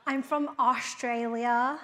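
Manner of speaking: Australian putting on an American accent. Shown as a demonstration. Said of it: "we have to hear your American accent".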